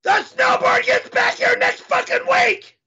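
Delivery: angry yell; furious shout. Acted. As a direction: demand it back in rage. Furious demand.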